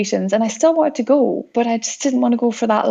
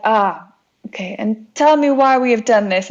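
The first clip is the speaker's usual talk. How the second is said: lightly imitated Russian captain; a hint of a Russian accent; booming Russian accent. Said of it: "booming voice and accent".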